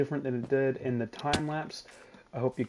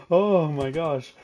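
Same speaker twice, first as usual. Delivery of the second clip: relieved laughter; 2 semitones higher, 7 dB louder, slower than usual. Real, not acted. Recovering from the scare.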